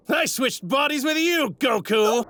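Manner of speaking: high, exultant villain cry; triumphant reveal. Acted. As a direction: crow the secret at your enemy.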